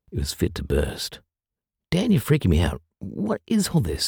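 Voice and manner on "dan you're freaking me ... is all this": high, strained, choked-up voice; choked, frightened. A narrator's reading. Lucy scared by Dan's supplies, choked and high. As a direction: fear rising in the throat. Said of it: "choked Lucy".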